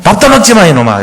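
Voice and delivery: high, sharp mock scold at a child; lightly hammed parental telling-off. Parent berating a child, mock angry. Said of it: "이러면서".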